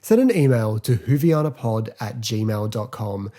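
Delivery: host opening the audience Q&A segment; announcer read. Acted. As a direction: present it like a radio host. Podcast segment intro read.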